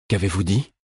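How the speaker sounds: mild, gentle questioning. A narrator's reading. Queen checking on a dazed companion, gentle voice. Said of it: "demanda Ketriken d'une voix douce".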